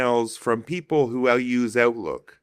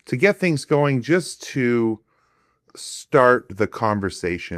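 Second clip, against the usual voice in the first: hollow, echoing room sound; like talking down a tunnel. Real, not acted. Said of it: "I'm sorry about the tunnel effect".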